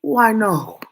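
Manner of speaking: loud, knowing exclamation; emphatic loud I know. Real, not acted. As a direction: call out that you know it all.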